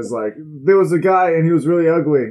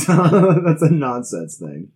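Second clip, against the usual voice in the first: slow laughing aside; 2 semitones higher, much slower than usual. Real, not acted. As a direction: laugh through the words. Laughing at own joke.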